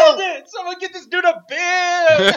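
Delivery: calling out. Real, not acted. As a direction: shout it across the room. Calling out the spill.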